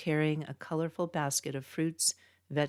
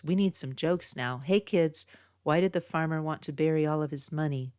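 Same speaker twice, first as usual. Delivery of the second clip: put-on joke setup to kids. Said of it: "joke setup to kids".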